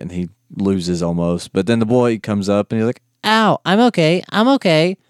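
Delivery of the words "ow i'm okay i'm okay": much higher, louder strained voice; hurt but insisting. Retold or imitated. Beaten boyfriend insisting he's okay, high strained voice. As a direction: wince and claim you're fine.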